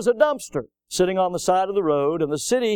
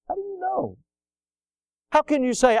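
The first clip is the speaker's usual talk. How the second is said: challenging question; 10 semitones higher than usual. Acted. Preacher pressing the congregation with a soaring, hushed repeat. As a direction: lift the question way up, almost breathless.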